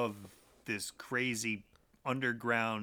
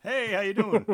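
high, loud goofy greeting; silly high voice; 10 semitones higher, 8 dB louder than usual. Retold or imitated. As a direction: chirp it like a cartoon. Mock greeting from severed head.

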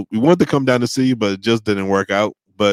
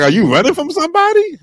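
much higher, mock-suspicious question; mock suspicious kid; 4 dB louder than usual. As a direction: ham up the nosy classmate's suspicion. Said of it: "It's like".

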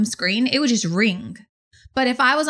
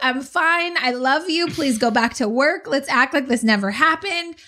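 retold firm plea; 4 semitones higher than usual. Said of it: "And then he's like".

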